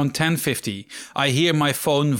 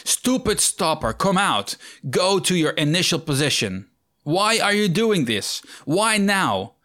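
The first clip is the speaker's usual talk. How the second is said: mock shout; 5 semitones higher than usual. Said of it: "wanted to shout at the stopper".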